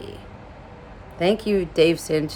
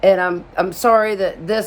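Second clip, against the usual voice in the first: higher-pitched, run-on imitated apologizing; mock weepy, apologizing over and over; tearful apology; 4 semitones higher than usual. Embarrassed homeowner apologizing for everything to her plumber, mock tearful apology. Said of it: "I'm crying, crying, crying".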